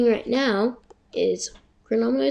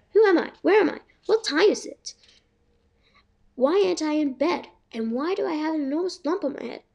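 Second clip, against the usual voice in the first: confused; 4 semitones higher than usual. Acted. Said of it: "I muttered".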